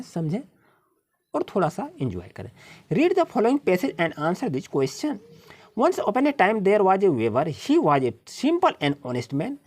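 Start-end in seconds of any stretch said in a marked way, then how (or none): 2.9-9.6 reading the story aloud, word by word; slow, careful read-aloud for the class; slow passage reading. Acted. Teacher reading the passage to her pupils, slow and deliberate.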